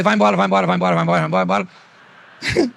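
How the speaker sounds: rapid repeated shooing, run together; hurried dismissal. Retold or imitated. Preacher retelling how he sent him off, hurried dismissal. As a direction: rattle it off to get rid of someone. Imitates himself hurrying someone away.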